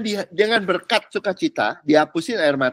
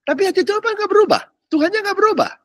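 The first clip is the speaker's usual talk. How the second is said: raised, high insistent declaration; emphatic preaching; faster than usual. Real, not acted. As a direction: drive home that God never changes. Preacher stressing God's unchanging heart.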